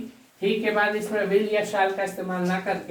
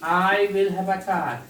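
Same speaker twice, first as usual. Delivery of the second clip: very slow, word by word; teacher writing a sentence on the board; slow dictation; much slower than usual. Shown as a demonstration. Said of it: "जैसे ही मेरे पास car होगा".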